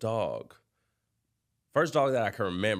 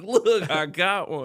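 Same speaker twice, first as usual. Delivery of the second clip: put-on proud excited kid; 10 semitones higher, 8 dB louder, slower than usual. Kid proudly shows new dog.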